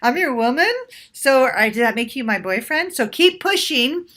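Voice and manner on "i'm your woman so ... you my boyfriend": light and playful. Shown as a demonstration. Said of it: "do it light and playful like I just did".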